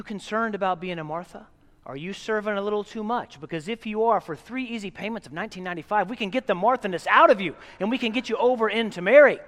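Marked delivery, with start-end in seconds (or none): 4.2-9.4 fast, loud salesman pitch; hammed-up TV pitchman; home shopping host. Mock infomercial pitch in sermon.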